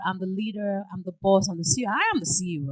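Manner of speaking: loud, boastful boss claims; bossy. Retold or imitated. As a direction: announce yourself as the boss. Boastful boss talk, rising.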